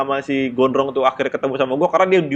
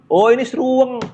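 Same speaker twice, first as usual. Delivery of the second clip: officer's reply; 10 semitones higher, 4 dB louder than usual. Retold or imitated. Station officer answers.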